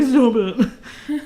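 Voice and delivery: imitating crying boy. Retelling the teen crying at the pimp, mock sobbing protest. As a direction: lightly ham up the upset boy. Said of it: "all snotty and crying. He's like".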